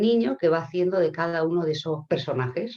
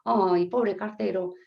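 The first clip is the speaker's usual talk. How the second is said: acted sympathy; 4 semitones higher than usual. Flower bearer pitying the postman, acted sympathy. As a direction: draw out the pity, then advise.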